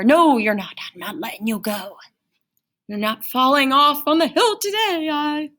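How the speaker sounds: a hint of a stern door speaking; the consonant-door refusing to let the vowel go. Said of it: "It's acting like a door".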